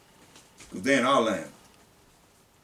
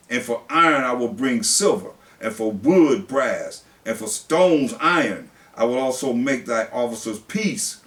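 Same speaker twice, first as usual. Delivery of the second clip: solemn pulpit reading; scripture reading. Acted. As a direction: read it out like the word of God.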